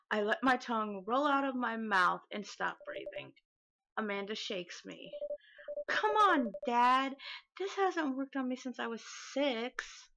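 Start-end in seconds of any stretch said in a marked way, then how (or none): 5.9-10.1 exasperated daughter. Acted.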